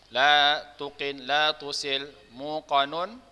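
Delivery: loud, measured drill recitation; melafalkan tasrif. Shown as a demonstration. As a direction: call out the paired forms word by word. Guru melanjutkan tasrif berpasangan. (melafalkan tasrif dengan lantang)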